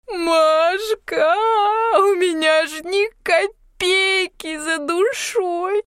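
high, slow drawn-out wail; loud bitter crying. A narrator's reading. Yulka, drunk and self-pitying, cries to Mashka, wailing. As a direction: bawl it out. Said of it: "сразу же заревела. Громко, горько".

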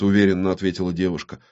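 plain reading voice

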